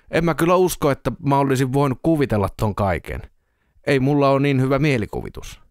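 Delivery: a touch of defensive insistence; protesting character. Acted. Shaken man insisting he did not imagine it, mildly protesting.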